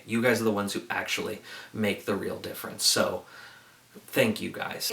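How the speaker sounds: subdued, sincere tribute; sincere gratitude. Real, not acted. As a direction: speak earnestly and directly to those who served. Direct thanks to real soldiers.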